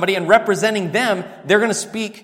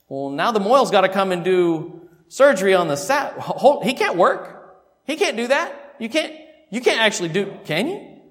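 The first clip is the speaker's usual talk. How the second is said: worried objector; 4 semitones higher than usual. Retold or imitated. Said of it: "Uh-oh".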